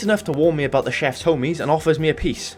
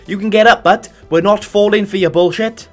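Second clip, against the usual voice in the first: calling out at him; 5 semitones higher, 7 dB louder than usual. Acted. Yelling at fallen cop.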